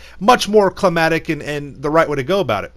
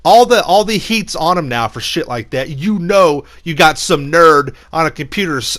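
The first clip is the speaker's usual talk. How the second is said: ordinary talk, nothing marked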